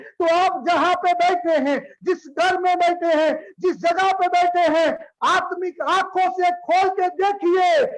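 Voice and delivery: forceful, projected sermon delivery; impassioned preaching. Real, not acted. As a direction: press each question on the congregation. Preacher exhorts the congregation. (जोशीला उपदेश, पुकार भरे स्वर में)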